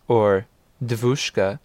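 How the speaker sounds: devushka said slowly, DEV-ush-ka with a V sound; slow Russian word. Shown as a demonstration. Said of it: "The Russian word for miss".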